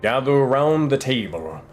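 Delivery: ominous storyteller inviting listeners in; horror host. Acted. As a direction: draw them close like a spooky host. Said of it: "invites all to the table".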